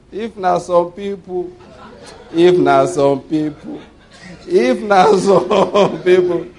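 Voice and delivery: slow, laughing repetition; laughing drawn out. Real, not acted. Preacher laughing at how others would react. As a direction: stretch it out between laughs.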